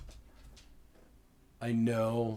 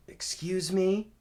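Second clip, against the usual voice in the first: higher, louder, slow questioning rise; taken aback; 9 semitones higher, 5 dB louder, slower than usual. Retold or imitated. Officer reacts to caller's odd greeting, taken aback. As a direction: imitate a puzzled officer, voice lifting at the end.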